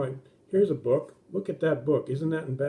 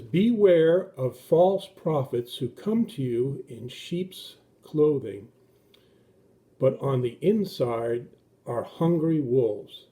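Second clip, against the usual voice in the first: scripture reading; 3 dB louder, slower than usual. Acted. Reading Bible verse.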